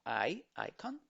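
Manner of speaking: "icon" opening on a long "ai" sound. Shown as a demonstration. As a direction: say the I of "icon" as eye. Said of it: "Esta I es larga". ("icon" con i larga, como ai)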